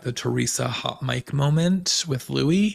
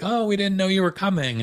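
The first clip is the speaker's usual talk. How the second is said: mock surprise; 7 semitones higher than usual. Mocking staged surprise over car.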